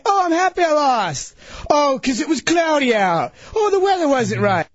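mock excuses in a hint of an Irish lilt; slipping into Irish accent. Sore loser mocking excuses for losing, drifting into Irish accent. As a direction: reel off sarcastic excuses, turning faintly Irish. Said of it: "Why is he getting an Irish accent?".

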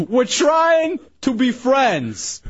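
slow, drawn-out laughing yell. Real, not acted. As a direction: yell it out slowly, half laughing. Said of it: "Stop yelling".

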